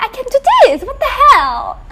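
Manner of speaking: laughing through the words. Real, not acted. Streamer laughing while trying again. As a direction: giggle while pushing on.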